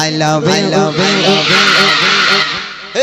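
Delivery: repeated refrain stretched out at the end; loud call on request. Shown as a demonstration. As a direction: belt out the refrain when asked. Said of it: "একবার জোরে আওয়াজ দিতে দেখি". (জোরে আওয়াজ দিয়ে টেনে বলা)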